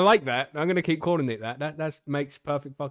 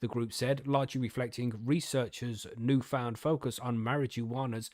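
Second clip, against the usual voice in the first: news article reading. Real, not acted. Podcaster reading cannabis research news to co-hosts, article-reading voice. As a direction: read the research report out to listeners.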